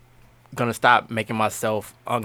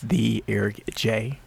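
dramatic intro; slower than usual. Acted.

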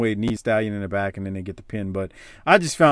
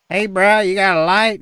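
mooching smoker; 7 semitones higher, 5 dB louder than usual. Retold or imitated. Imitates bumming smoker.

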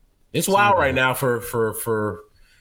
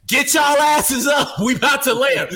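yelling flight attendant; 12 semitones higher, 4 dB louder than usual. Retold or imitated. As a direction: bark it at the whole cabin. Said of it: "How do we go from".

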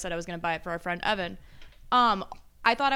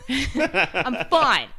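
loud, hammed-up claim of being fine; mock tearful; 2 semitones higher, 7 dB louder than usual. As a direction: imitate someone insisting through tears. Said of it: "through tears, through tears, by the way".

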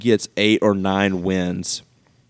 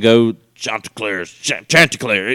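lightly imitated football coach; a hint of a coach's rallying cry; 3 dB louder than usual. Co-host imagines the coach at his new job, light impression. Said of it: "Imagine him saying".

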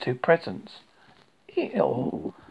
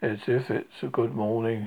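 gloomy; 4 semitones lower than usual. Acted. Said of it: "said Eeyore gloomily".

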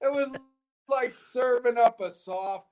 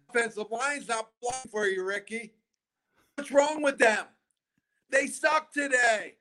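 mock yell at a teammate, slowing at the end; half-shouted warning about the blockers; retold sideline yelling; 5 semitones higher than usual. Player warning Ricky his blockers quit, mock yelling. Telling Ricky during the game.

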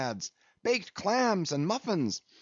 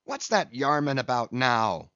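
high-pitched frantic pleading; giddy, high-voiced little mate in a frenzy; excited cries; 8 semitones higher than usual. A narrator's reading. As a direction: beg the rowers on, hopping with excitement. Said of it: "cried Flask, dancing up and down".

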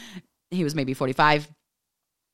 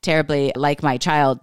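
louder, insistent protest; flustered denial; 4 dB louder than usual. Retold or imitated. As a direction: protest hurriedly that the child isn't yours. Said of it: "I'm like".

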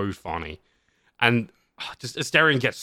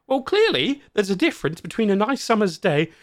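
high, loud theatrical protest; hammed-up indignation; 10 semitones higher, 5 dB louder than usual. Acted companion berating the player.

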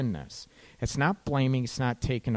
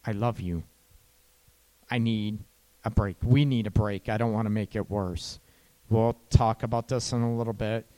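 gentle reassurance; 3 semitones lower than usual. Shown as a demonstration. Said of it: "maybe you can even say".

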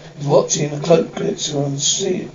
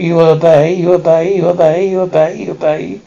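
Dalek chant fading out; harsh barking commands. Acted. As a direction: bark it, then let it die away. Dalek repeating obey, fading.

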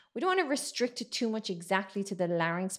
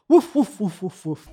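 big dog barking; 10 dB louder than usual. Shown as a demonstration. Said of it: "think of a big dog barking".

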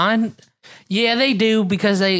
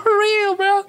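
emphatic; slower than usual. Real, not acted. Emphatic agreement.

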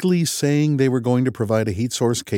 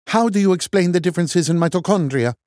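higher, louder Norwegian contempt; scornful Norwegian; 10 semitones higher, 4 dB louder, faster than usual. A narrator's reading. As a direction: sneer it in a Norwegian accent. Loken arguing.

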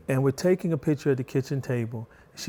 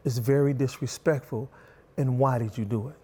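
calm dad. Retold or imitated. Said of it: "This time I said".

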